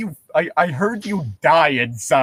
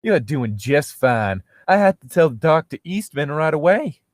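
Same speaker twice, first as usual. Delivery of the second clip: put-on Southern accent; 3 semitones higher than usual. Nurse telling patient he is fine, Southern accent. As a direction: soothe him as a Southern peach. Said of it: "the accent of a sexy southern peach".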